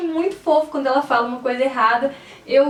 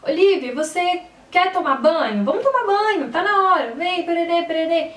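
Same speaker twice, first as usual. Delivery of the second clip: playful call to bath; 3 semitones higher than usual. Retold or imitated. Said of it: "Então".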